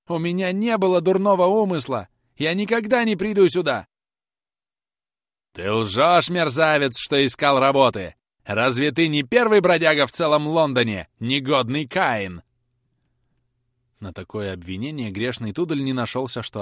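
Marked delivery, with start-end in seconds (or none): 0.1-3.9 much higher, louder pleading; desperate plea. Acted. Boy pleading. 5.5-12.4 much louder raging denunciation; furious accusation. Acted. Carker accusing.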